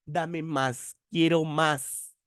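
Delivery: quiero más said slowly with más stretched; teacher demonstrating más as quantity, slow and emphatic. Shown as a demonstration. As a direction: spell out the craving in más. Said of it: "más con tilde".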